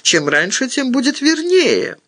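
understated fearful self-justification; frightened babbling. A narrator's reading. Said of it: "пролепетала Эдда, трясясь всё больше".

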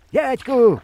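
sudden high, loud alarmed cry; shouting. A narrator's reading. The boy warns the hunter as the boat tips, shouting high and loud. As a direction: yell out a warning. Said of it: "кричу".

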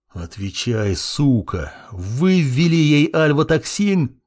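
menacing growl over the prisoner; growled demand. A narrator's reading. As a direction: snarl the question at him. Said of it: "прорычал я". (угрожающий рык)

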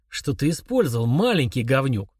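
spitting. Acted. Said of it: "отплёвываясь, спросил Малышев".

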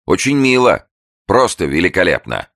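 loud sarcastic hoarse voice. A narrator's reading. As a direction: rasp it out like a sailor. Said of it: "с явным северонемецким акцентом. Голос был сиплый".

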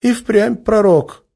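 high, slow amused remark. Acted. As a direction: relish the word. Olga continues cheerfully.

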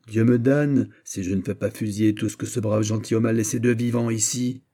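upbraid them with mounting indignation; indignant tirade. Acted. General berates soldiers who besieged his host, indignant.

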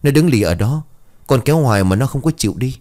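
telling it while half sobbing; a touch of crying. Acted. Child confesses graveyard mischief to mother, mock tearful. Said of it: "vừa khóc vừa nói".

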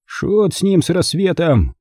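decisive uncle brushing it off; curt dismissal. A narrator's reading. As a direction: cut the objection short. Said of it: "отрезал дядя Паттон".

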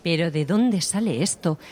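loud, slow, building outrage; indignant demand. Acted. Mourner confronting the flower deliverers, loud indignant demand. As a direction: demand it loudly, stretching the words.

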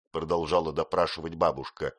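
ordinary delivery

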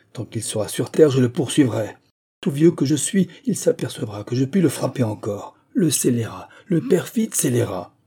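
the betrayed father flares up, half-acted; old man's rage. Father vows to pursue the traitor, mild indignant anger. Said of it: "l'emportement n'était pas aussi fort que le mien".

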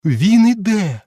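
high, loud cry of arrival; excited shout. Acted. Guest at the top announcing him, loud shout. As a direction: shout it up the stairs. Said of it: "підхопив хтось іще вище".

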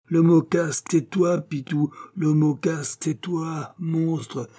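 high, theatrical denunciation; acted melodramatic outrage; horrified accusation. A narrator's reading. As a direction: hurl the accusation in tragic horror. Abbé denounces Pitou as the murderer.

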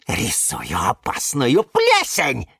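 slow, mild shouted retort; defiant call back. Acted. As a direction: throw the answer back spitefully. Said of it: "крикнула в ответ Евгения".

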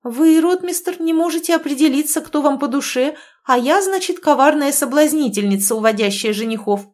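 indignant. A narrator's reading. Olga's indignant tirade continues.

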